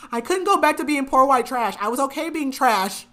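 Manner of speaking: can't keep a straight face on it; laughing through a quote. Retold or imitated. Host retells Ronnie's excuse, laughing through it. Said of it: "Ronnie's like".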